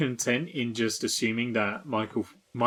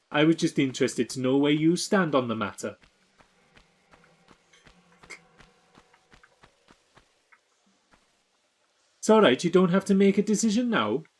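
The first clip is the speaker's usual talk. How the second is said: mock Welsh accent, a bit rough; 3 semitones higher than usual. In a bit, asking someone where they stand: Welsh accent. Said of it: "since I've had to do a Welsh accent".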